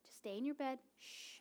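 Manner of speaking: put-on hushed, gentle whisper to a toddler; graciously. Mom whispering to her early-rising toddler to sleep. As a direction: shush her softly back to sleep. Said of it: "I just say very graciously".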